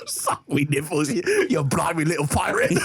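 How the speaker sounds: cockney pirate parody through laughter; hammed-up British pirate voice; mock British accent. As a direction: jeer in comic British.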